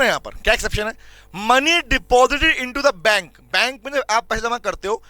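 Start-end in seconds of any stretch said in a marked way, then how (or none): 1.5-3.4 words spaced out for note-taking; slow classroom dictation. Shown as a demonstration. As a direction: dictate it slowly for the class to copy. Teacher dictating notes.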